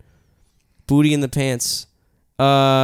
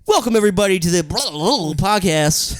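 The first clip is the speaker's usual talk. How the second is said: mock podcast host; 5 semitones higher than usual.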